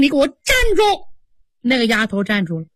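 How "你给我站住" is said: a mild mock shout to stop her; understated call to stop. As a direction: order the girl to halt, only lightly raised. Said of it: "凤姐大喊一声".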